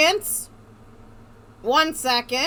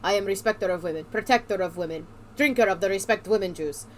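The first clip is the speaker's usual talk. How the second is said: Majima; 5 semitones lower than usual. Acted. Hero introduces himself before a fight, lightly voiced, low. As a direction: lower voice, mock-heroic introduction.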